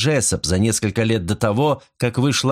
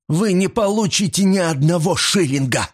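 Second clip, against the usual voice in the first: furious refusal; 10 semitones higher than usual. A narrator's reading. Mrs Creel refusing the detective his reward, high and furious. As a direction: deny him every penny.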